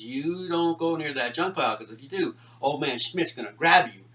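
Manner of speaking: big brother spooking his little brother with a mounting, loud warning; threatening warning. Retold or imitated. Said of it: "my brother warned me".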